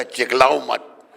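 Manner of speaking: "चिल्लाओ" said with a k as chiklao; imitated mispronunciation. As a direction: mimic the devotee's chiklao for "चिल्लाओ". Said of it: "चिल्लाने का कहता".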